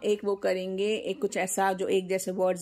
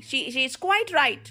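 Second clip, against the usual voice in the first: slow, deliberate repeat of the sentence; 2 semitones higher, much slower than usual. Shown as a demonstration. Mother slowly repeating the sentence to explain it. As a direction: spell out the meaning by slowing down. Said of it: "वो काफी सही थी".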